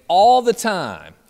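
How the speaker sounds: imitated loud, high group answer; campers' response. Campers answering their camp director, loud drawn-out response. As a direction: stretch it out like kids shouting back. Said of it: "the campers would respond to Dave saying".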